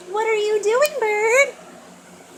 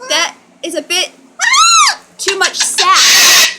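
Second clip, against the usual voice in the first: mock scolding; 6 dB louder than usual. Real, not acted. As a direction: scold the bird in fun. Scolding the bird playfully.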